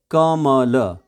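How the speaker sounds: कमल broken into slow, separate sounds; syllable by syllable. Shown as a demonstration. Teacher breaking a student's name down, syllable by syllable. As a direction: sound out क-म-ल piece by piece. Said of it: "दो सिलेब इसमें हैं".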